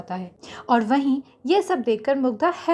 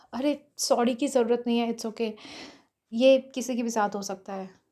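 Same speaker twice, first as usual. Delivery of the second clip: softer, relaxed reassurance; calm, easygoing; 4 dB quieter than usual. Acted. Mihir reassuring Mugdha about the spill, calm and easy. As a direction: brush it off gently. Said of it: "Mihir Mugdha से आराम से बोला".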